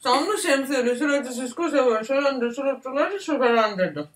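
stumbling with a full mouth; cheeks stuffed full. Real, not acted. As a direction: trip over words round the food. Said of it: "Emiyorum şu an var".

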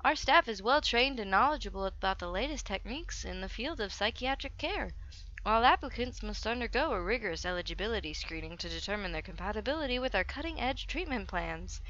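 sing-song promotional read; put-on brochure voice. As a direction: read it like an advert, pitch swooping. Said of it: "should not do that with my voice too often".

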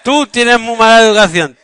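scolding. Real, not acted. Parent scolding child mid-homework.

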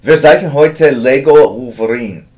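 put-on loud, commanding German accent. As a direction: announce it like a German drill sergeant. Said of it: "draw logs in a German accent".

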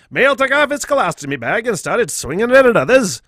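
put-on old newsreel reading; old-timey voice. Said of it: "it's a fucking old-timey voice".

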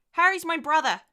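put-on high, loud child's declaration; insistent little girl. Daughter telling mother who Harry is, insistent child. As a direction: state it as a stubborn small child.

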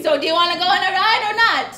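put-on Asian accent. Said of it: "I'm losing my Asian accent".

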